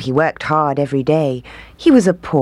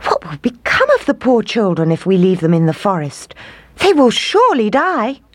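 pleading father; 7 semitones higher than usual. Acted. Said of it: "cried the woodcutter".

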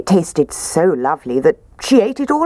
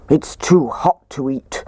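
slow, gruff bear voice; gruff Daddy Bear. A narrator's reading. Daddy Bear complains about porridge, slow and gruff. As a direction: grumble it slowly like a big bear. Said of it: "said Daddy Bear in his gruff voice".

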